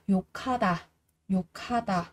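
욕하다 with ㄱ and ㅎ merged into an aspirated k. Shown as a demonstration. Teacher showing learners how ㄱ meets ㅎ, aspirated 욕하다. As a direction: say 욕하다 as "yo-kha-da", with a kh. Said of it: "sẽ được đọc thành là khờ".

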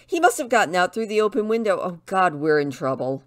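alarmed realisation. Acted. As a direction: blurt it out quickly, mildly panicked. Dismay at the dog's escape.

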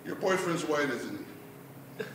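soft, low trailing question; gingerly probing. Acted. Dad asking about daughter's boyfriend, hushed.

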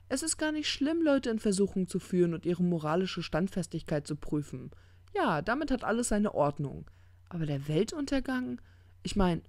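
offended self-justification; indignant demon. Acted. Crowley argues back indignantly.

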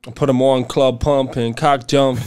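low-key, failed New York accent; badly faked New York accent; attempted New York accent. Shown as a demonstration. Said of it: "Give your best New York accent".

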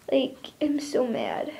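slow, whispered frustration; slow whispered fuming; angry whisper. Real, not acted. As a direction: hiss it out, too fed up to speak up. Whispering her anger to camera.

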